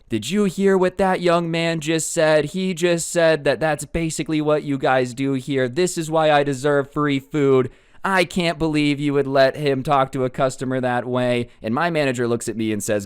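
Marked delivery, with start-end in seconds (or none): 0.1-11.5 mock outraged customer ranting to the whole store; hammed-up indignant Karen; going off. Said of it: "she starts going off".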